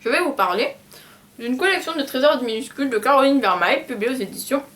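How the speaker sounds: chewing while talking; mouth full. Real, not acted. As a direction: talk around a mouthful of cookie. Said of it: "Non mais regardez pas ma bouche".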